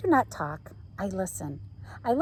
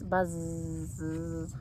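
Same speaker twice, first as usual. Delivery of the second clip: bee buzz; 3 semitones lower, 4 dB quieter than usual. A narrator's reading. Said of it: "bees in the flowers".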